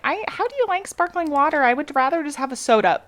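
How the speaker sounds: high put-on co-host voice; impression of co-host. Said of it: "really nice impression of me".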